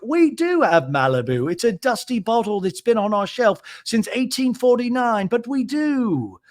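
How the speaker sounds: a dry, proper barmaid; high mock barmaid; imitating the bartender. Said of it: "And the lady's like".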